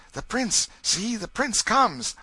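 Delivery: high, loud herald of an arrival; excited announcement. A narrator's reading. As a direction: call out that royalty is coming. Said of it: "a general buzz along the corridors".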